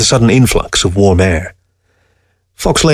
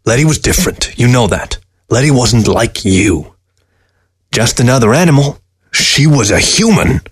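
a scornful dead fox sneering at the man; sly fox voice; 3 semitones higher than usual. Acted. Fox character voice.

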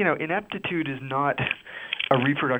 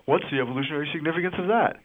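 tv doctor. Pretend. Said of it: "a doctor who does a doctor voice".

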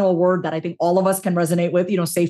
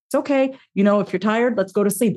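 tender inner voice; 2 semitones higher than usual. Retold or imitated. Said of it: "that voice inside of me".

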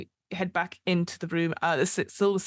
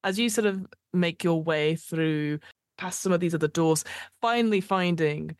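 game master narration. Acted. GM describing the streets of Sigil, measured narration. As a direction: paint the aftermath for the player.

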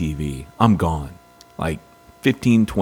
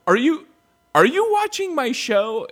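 teasing wife. Retold or imitated. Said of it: "She's like".

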